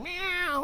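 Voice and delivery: soft, high-pitched cat meow; imitated meow. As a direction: shrink a bark into a small high meow. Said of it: "then they turn into a meow".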